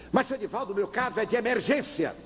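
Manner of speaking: high, pleading man's voice; pleading father. Retold or imitated. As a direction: beg him as the anxious father. Father insists again.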